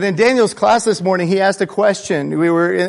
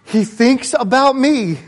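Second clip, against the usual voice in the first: amazed, rising sharply on me; wondering aloud in disbelief; surprised; 8 semitones higher, 3 dB louder than usual. Retold or imitated. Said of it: "my mind immediately said".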